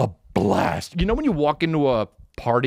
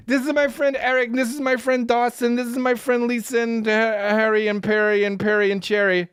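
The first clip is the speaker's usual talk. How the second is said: put-on much higher, giddy girly voice; tipsy girlfriend; 12 semitones higher than usual. Imitating his tipsy girlfriend greeting him, high and giddy. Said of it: "She's like".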